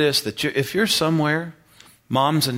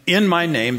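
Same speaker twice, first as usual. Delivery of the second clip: "In my name" launched higher as a new sentence; fresh start on IN; 4 semitones higher, 3 dB louder than usual. Shown as a demonstration. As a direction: start anew on "In my name" after a breath. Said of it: "start again".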